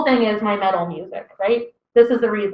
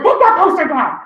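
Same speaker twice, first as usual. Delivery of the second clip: disapproving mom; 6 semitones higher than usual. Retold or imitated. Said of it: "She's like".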